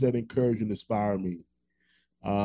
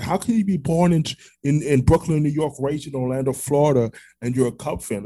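higher-pitched mock disbelief; incredulous question; 4 semitones higher, 3 dB louder than usual. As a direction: quote their puzzled challenge, pitched up. Acts out people's incredulous question.

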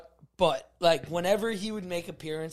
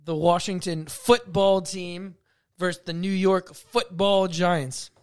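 sports announcer; 2 semitones higher, slower than usual. Shown as a demonstration. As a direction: announce it like a big game intro. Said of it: "Announce what game is".

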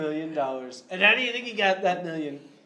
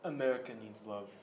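Trump impression; 2 semitones lower, 3 dB quieter than usual. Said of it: "President Trump here".

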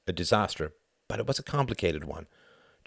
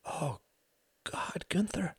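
hushed, breathless higher whisper; startled whisper; 11 semitones higher, 7 dB quieter, slower than usual. A narrator's reading. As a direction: gasp it out under your breath. Startled woman on the phone.

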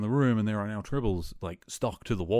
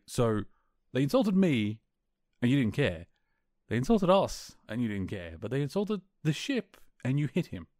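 sarcastic, slightly offended; 4 semitones higher than usual. Retold or imitated. Captain to his engineer who hit over the ship, sarcastic and slightly offended. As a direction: imitate a captain's mock-hurt sarcasm. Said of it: "really good kind of sarcastic and almost a little bit, like, offended".

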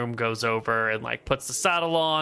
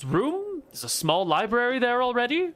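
haughty; 3 semitones higher than usual. Acted. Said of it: "haughtily speaking over you".

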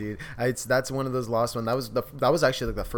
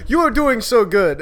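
high, loud, slow cheering crab; overly encouraging cartoon crab; 8 semitones higher, 10 dB louder than usual. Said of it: "It's like".

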